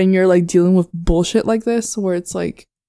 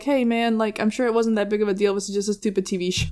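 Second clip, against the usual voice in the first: quiet, soothing reassurance; soft reassuring; 2 semitones higher, 6 dB quieter than usual. Retold or imitated. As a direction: gently talk him down. Acted reassuring advice to cast member.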